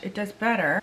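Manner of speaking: ordinary talk, nothing marked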